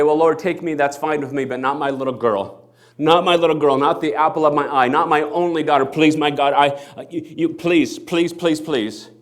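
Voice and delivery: a desperate father's loud begging; pleading father. Acted. Father begging Jesus to save his daughter, loud and pleading. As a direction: beg for your little girl's life, voice rising.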